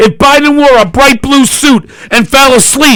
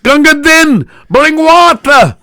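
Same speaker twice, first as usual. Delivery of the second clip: quoting a catchphrase; 6 semitones higher than usual. Retold or imitated. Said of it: "Steve's famous for saying".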